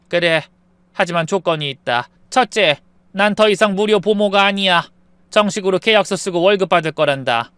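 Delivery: firm. Acted. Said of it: "단호하게 고개를 저으며".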